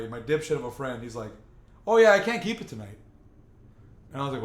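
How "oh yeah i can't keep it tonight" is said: friend's excuse. Retold or imitated. Friend backs out casually.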